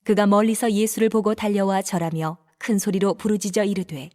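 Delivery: ordinary delivery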